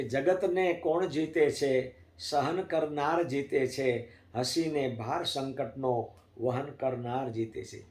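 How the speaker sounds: slow, measured recitation of Gujarati verse; poem recitation. Acted. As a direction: savour each line of the poem. (धीमे, ठहरे हुए स्वर में कविता पाठ)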